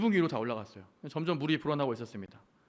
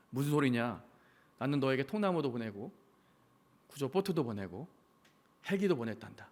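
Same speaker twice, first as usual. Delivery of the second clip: lower, softer voice of God; God's gentle reply; 4 semitones lower, 4 dB quieter than usual. Acted. God answering the complaining pastor, lower and softer. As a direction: answer like a patient father, low and soft. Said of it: "하나님이 이렇게 말씀하셨다고".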